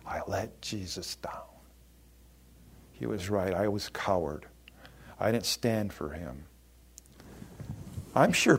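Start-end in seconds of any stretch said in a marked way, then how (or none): 0.0-6.4 low and soft, heavy with regret; broken-hearted. Acted. Peter grieving after denying Jesus, low and soft. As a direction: let the voice sink with shame.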